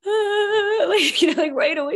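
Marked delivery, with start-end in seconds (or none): 0.1-0.8 high, loud exaggerated sob wail; high wailing sob down the phone to a friend; mock crying wail. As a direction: burst into an over-the-top crying wail. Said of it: "I'll just pick up the phone and be like".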